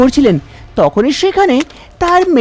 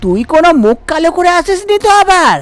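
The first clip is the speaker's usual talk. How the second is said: higher-pitched nagging mother's voice; prying, a little higher, like a worried village mother; suspicious mother; 4 semitones higher than usual. Acted. Mother questions breathless daughter, lightly voiced and suspicious.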